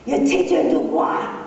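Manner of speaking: Du Bois said the FBI man's way, not like we do; mock his Du Bois; mispronounced name. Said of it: "He didn't say Du Bois like we do".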